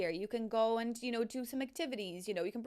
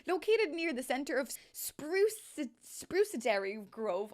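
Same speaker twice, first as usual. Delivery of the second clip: stumbling read; 3 semitones higher, 3 dB louder, slower than usual. Real, not acted. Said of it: "the speaker cannot read today".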